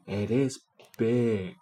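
farmer voice. A narrator's reading. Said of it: "said the farmer".

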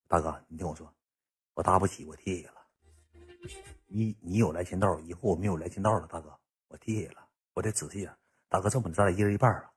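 very soft, low, halting plea. Retold or imitated. Yuntao begging big brother to split the bill, imitated meek plea. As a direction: beg quietly, stumbling over the start. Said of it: "云涛上我跟前这么跟我说句话".

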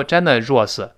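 generous with a wrong ending, no curled r in the last syllable; wrong pronunciation of generous. Shown as a demonstration. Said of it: "不要读generous".

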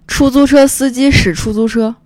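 出租车司机 read out crisply as a model; carefully enunciated 出租车司机使出租车; tongue twister demo. Shown as a demonstration. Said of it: "我给你念一遍".

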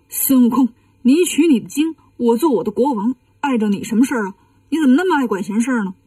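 protesting villain, rushing at the end; aggrieved challenge. Acted. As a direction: demand why he meddles.

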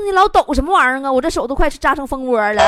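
loud, fast complaint; mock exasperated outburst. Patient to nurse with shaking hands, exasperated. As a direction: snap at her in comic outrage.

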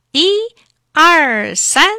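loud, drawn-out count before a heave; storyteller's big one-two-three; effortful count. A narrator's reading. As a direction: count out the pull with force. Dentist counting before second pull.

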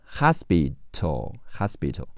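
"hospital" with American "hah" opening; American pronunciation. Shown as a demonstration. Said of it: "美式发音是和啊哈".

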